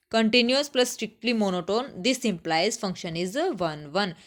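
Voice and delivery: slow, word by word for the notebook; teacher dictating the result, slowly; slow dictation. Shown as a demonstration. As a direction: spell out "continuous plus strictly monotone" slowly so students can write it. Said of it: "इसको चाहो तो copy में note कर लो".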